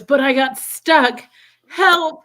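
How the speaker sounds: high, loud, slowed cry for help from a little elf; stuck elf plea. Retold or imitated.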